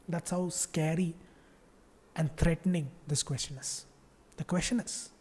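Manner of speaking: hushed fake dread over an easy question; mock spooky dread. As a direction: tease the class like a horror trailer. Mock horror buildup before easy question.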